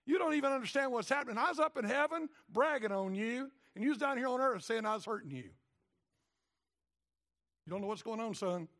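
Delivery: stern God. Acted. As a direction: scold him like a wayward son. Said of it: "God's like".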